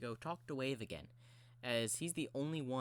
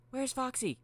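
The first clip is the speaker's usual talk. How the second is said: high, loud searching call; high character voice, urgent question; 13 semitones higher, 6 dB louder than usual. Acted. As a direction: call out very high for a missing friend. Mangle searching, calling out.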